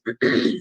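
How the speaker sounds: clearing a choked throat; quick throat clear. Real, not acted. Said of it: "excuse me, I'm choking".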